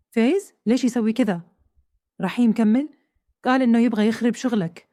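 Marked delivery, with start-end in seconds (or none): 0.1-1.4 lightly voiced upset husband demanding why. Husband learning his partner's betrayal, mildly angry. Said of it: "غانم زعل وقال".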